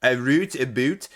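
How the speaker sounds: "root" said to rhyme with "boot"; "A root, a boot" with long oo; rhyming demo. Shown as a demonstration. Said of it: "my Midwestern Michigan accent".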